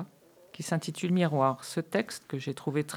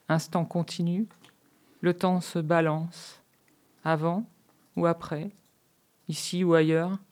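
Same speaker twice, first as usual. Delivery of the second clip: measured poem recital with long pauses; intimist poem reading. Real, not acted. Reciting their own intimist poem to listeners, measured and hushed-paced. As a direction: let each short line hang before the next. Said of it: "le ton, toi, rien que le ton".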